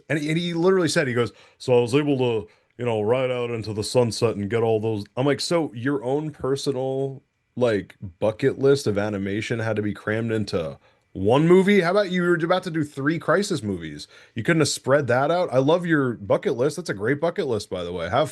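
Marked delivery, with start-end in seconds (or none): 1.6-5.0 put-on New York accent. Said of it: "real thick New York accent". 5.4-15.5 incredulous. Retold or imitated. Retorting to the director.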